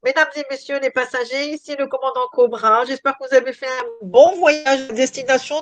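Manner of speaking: mock pilot over the intercom; airline captain announcement. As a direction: cabin announcement from the cockpit. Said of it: "je vais me passer le nez".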